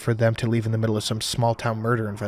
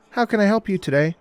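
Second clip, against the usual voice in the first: higher, bright Southern receptionist greeting; cheerful Southern accent; 7 semitones higher than usual. A narrator's reading. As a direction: answer the phone in a sunny Southern accent. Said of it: "cheerful voice and a southern accent".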